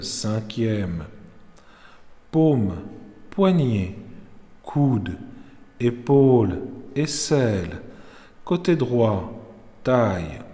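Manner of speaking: body-scan naming, part by part; unhurried Yoga Nidra guidance with spaces between phrases; guided meditation. Real, not acted. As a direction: lead their attention calmly round the body. Leads body rotation.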